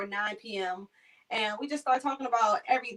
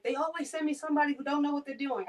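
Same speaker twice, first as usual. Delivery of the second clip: higher, mock-grumpy patient voice; a grumbling patient, voiced higher; quoted patient; 5 semitones higher, faster than usual. Patient complaining to the new caregiver, mock-grumpy.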